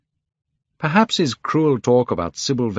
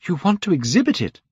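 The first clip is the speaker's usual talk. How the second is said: higher, shocked disbelief on exhibit; alarmed cry; 9 semitones higher, faster than usual. Acted. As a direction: gasp it out, aghast. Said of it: "cried Dorian Gray".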